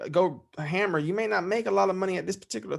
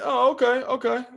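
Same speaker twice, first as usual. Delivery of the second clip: dad responds; 8 semitones higher, 4 dB louder than usual. Retold or imitated.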